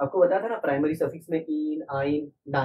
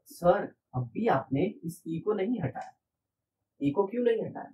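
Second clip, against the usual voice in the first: puzzled student voice; 5 semitones higher than usual. Pretend. Teacher mimicking a student asking why e stays. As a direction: ask it like a confused student.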